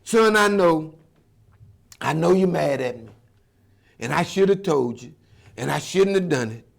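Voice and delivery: a father begging his son not to be mad; pleading father. Acted.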